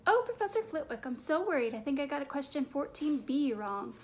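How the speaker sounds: mock-fretful high voice, easing down; put-on high voice. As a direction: start high and loud, hamming up the worry. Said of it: "he put on a high voice".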